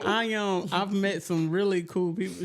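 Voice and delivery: talking around a grill in the mouth; words blurred by a teeth grill; wearing teeth grill. Real, not acted. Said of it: "she said I can't talk with my grill in".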